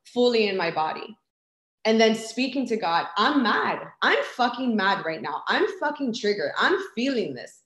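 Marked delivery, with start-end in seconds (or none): 3.2-7.6 mildly heated declaration of anger; retold anger. Telling God she is triggered, retold anger. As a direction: vent it firmly, without shouting. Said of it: "feeling the anger".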